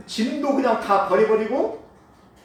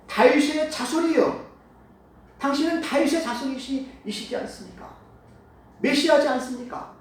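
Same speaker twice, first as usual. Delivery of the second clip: pleading blind man; 4 semitones higher than usual. Acted. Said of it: "소경 바디메오가 뭐라고 얘기하냐면은".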